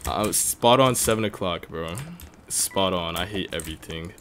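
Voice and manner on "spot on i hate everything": low, soft simmering frustration; mad, dejected. Real, not acted. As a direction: grumble it quietly, sunk in frustration. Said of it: "I'm so mad".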